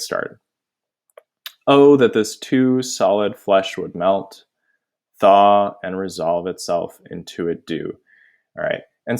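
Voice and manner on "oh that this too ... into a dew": slow, measured Shakespeare recital; dramatic verse reading. Acted. Teacher reading Hamlet's soliloquy to students, measured recitation. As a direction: draw out the opening "Oh", then measure out the verse.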